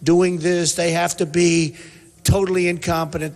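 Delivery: voicing puzzled frustration at politicians; a hint of a bewildered voter; mock exasperation. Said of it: "that you say".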